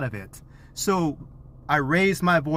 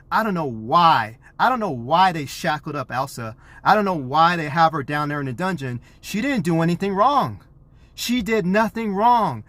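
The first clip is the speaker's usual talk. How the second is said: loud, positive plea; 3 semitones higher than usual. Retold or imitated. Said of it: "I need to be super loud, but in a positive twist".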